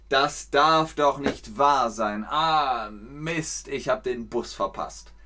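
slow, dismayed disbelief about the bus; exasperated complaint. Shown as a demonstration. Teacher demonstrates the phrase, exasperated. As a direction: groan in disbelief. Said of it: "Dann sagt man".

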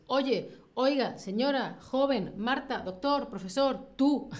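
calling for attention. Shown as a demonstration. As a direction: lightly call out each form of address. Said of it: "sirve para atraer la atención". (llamando la atención)

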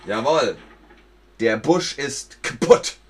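loud victory cheer; triumphant. Acted. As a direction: crow over the broken bush. Cheering the win.

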